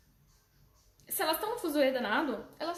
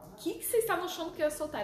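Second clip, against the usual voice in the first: mock innocent; 4 semitones higher, much faster than usual. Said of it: "Eu falo".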